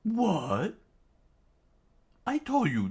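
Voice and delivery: high-pitched mocking retort; high taunting villain. Villain taunts the hero, high mocking voice. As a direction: sneer it high.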